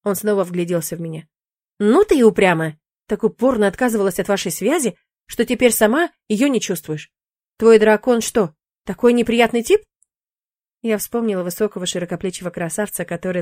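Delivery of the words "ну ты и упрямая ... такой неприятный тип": mock scolding demon. Demon scolds stubborn witch.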